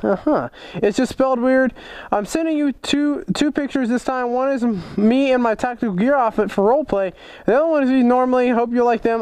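a hint of a boy writing to his hero; lightly voiced young fan. Reading a young fan's letter aloud.

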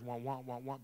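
wordless wah-wah imitation; mock droning talk. Father hearing doctors talk without taking it in, mock droning. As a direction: drone wah-wah like talk going unheard. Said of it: "all I hear is".

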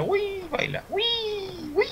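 surprised. Real, not acted. Surprised at on-screen play.

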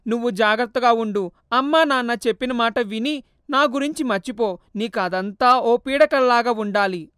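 understated sorrowful goodbye; sorrowful farewell. Acted. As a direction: ghost saying goodbye for good. Mother's farewell.

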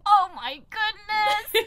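put-on slow, high, drawn-out child's oh my goodness; kid copying nanny. Kid repeating the nanny to frustrating parents, drawn out. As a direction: mimic a kid parroting the nanny. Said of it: "then they're just like".

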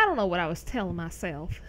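lightly put-on southern accent, quick; a hint of a southern twang. Streamer recalling talking to herself, in a light southern accent. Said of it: "in a southern language".

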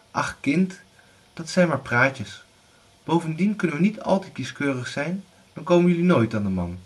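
high brushing-off mother voice; dismissive mother. Acted. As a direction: wave the fears away. Widow dismisses the rumours.

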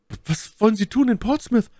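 very high falsetto lady's question; inquiring My Lady. A narrator's reading. Lady questioning her rescuer, high-pitched curiosity. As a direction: ask in a high, put-on lady voice.

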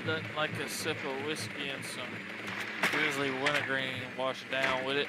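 talking around a dip; words around a wad of tobacco; lip full of dip. Real, not acted. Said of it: "I got a dip in my mouth".

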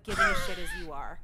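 squeaky high sarcastic jab; shrill scoff. Real, not acted. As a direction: jump way up in scornful disbelief. Scoffing at teacher.

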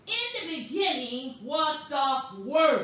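slow, bold scripture reading; weighty, spaced-out proclamation. Shown as a demonstration. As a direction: bold each key word deliberately. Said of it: "so I'm gonna say it boldly".

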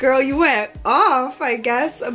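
playful self-roast, stretched out; mock self-scolding. Teasing herself for buying too much, in a sassy mock-scold.

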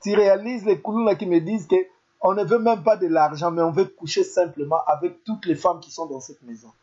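a hint of a man breaking down in tears; tearful retelling. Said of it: "il tombe en pleurs".

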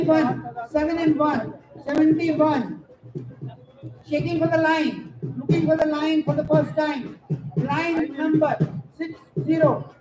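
calling out the numbers; sing-song number calls for the hall; bingo caller. Acted. Housie numbers called to players.

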